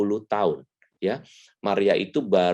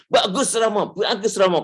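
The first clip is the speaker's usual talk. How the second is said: flattering congregation; 12 semitones higher than usual. Retold or imitated. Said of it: "Khotbah pasti".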